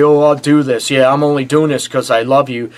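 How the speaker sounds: half-hearted pouty grumble; whiny and pouty. Retold or imitated. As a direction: whine it like a sulky partner doing a favour. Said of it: "to be whiny and pouty and say".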